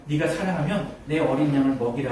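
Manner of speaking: low, soft, grave delivery; solemn quoted command. Retold or imitated. Jesus entrusting his lambs to Peter, solemn and hushed.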